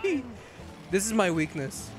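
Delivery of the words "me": high, squealing through laughter; laughing plea. Real, not acted. Streamer fleeing cars in the game, squealing laughter. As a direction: shriek it at the chasing cars while cracking up.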